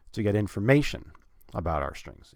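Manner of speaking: "information" stressed on MA, then drop away. Shown as a demonstration. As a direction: lift "information", let "about our strings" fall. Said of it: "put stress on the word information".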